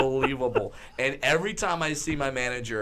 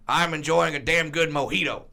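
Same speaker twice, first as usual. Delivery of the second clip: lightly voiced folksy announcer; a hint of announcer gusto; 2 semitones higher, 4 dB louder than usual. Commentator telling a fan what he drinks, mock folksy relish. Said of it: "And he goes".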